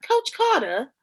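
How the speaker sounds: high-pitched questioning echo; mock disbelief. Retelling her reply to the speech, high mock disbelief.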